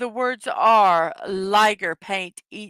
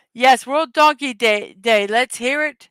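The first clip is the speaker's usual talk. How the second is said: loud cheering announcement; excited cheer; 3 semitones higher, 6 dB louder than usual. Real, not acted. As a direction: cheer it out to the chat. Cheering the holiday.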